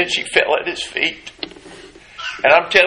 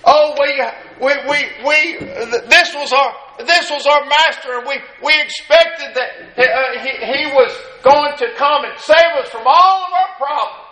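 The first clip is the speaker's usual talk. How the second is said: higher, halting mourner's voice; stammering disciple; 9 semitones higher than usual. Acted. Preacher voicing disciples mourning their master, stammering higher. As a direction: stumble over the words in grief.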